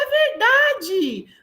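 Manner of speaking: very high, drawn-out mock amazement; stretched-out, high-pitched schoolchild wonder; pupils' realisation. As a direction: imitate a pupil suddenly convinced.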